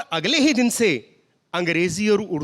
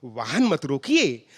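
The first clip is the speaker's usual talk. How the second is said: formal pure hindi. Retold or imitated. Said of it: "तो हमने कहा".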